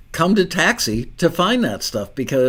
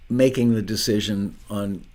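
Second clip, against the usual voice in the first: chewing cough drop. Real, not acted. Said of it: "Sorry, chewing a cough drop".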